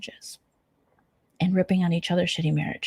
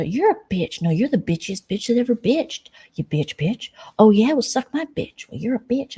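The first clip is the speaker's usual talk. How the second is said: mock screaming match; 5 semitones higher than usual. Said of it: "screaming at each other".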